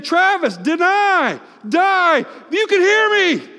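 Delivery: Jesus answering Travis, booming. Pretend. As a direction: call out each word like a summons. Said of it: "And you say".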